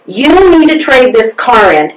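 slow, deliberate insistent command; the voice finally gets loud and won't be ignored; loud inner voice. Retold or imitated. The inner voice insists on a new car, slow and emphatic. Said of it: "and it was loud".

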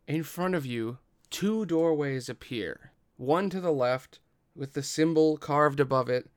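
measured, emphatic scene narration; game master's scene setting. Acted. Game master reveals two doorways to player, deliberate dramatic narration. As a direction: unveil each detail with deliberate pauses.

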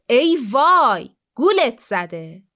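drawn-out, dismayed "ای وای"; slow dismayed fox. Acted. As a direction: let the fox sigh the news slowly. Fox realises lion was fooled.

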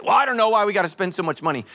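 quick, whiny complaint; fast grumbling impression; mock grumble. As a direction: mimic a stingy churchgoer. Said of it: "People always get upset".

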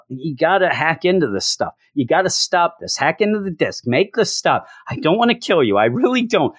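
high, desperate pleading; begging. Retold or imitated. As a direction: beg him not to make you do it. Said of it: "he just keeps begging Tony".

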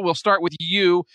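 ordinary talk, nothing marked

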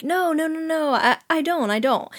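high, hasty mock backpedalling; imitating someone hurriedly retreating; backing off. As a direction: back off in a lifted, placating voice. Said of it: "he backs off and is like".

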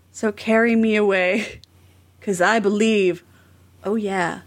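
mock-dramatic recital, breaking into small laughs; dramatic lyric reading. Shown as a demonstration. Host dramatically reads cheesy song lyrics for co-hosts, amused. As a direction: recite the chorus with deliberate pauses between phrases. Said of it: "dramatically read this".

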